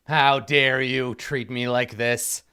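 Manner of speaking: indignant queen. Acted. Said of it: "she's just like".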